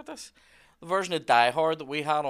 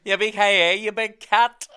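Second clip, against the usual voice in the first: mock dubbed voice; 8 semitones higher, 10 dB louder, slower than usual. Imitating a dubbed voice.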